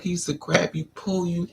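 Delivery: normal talking voice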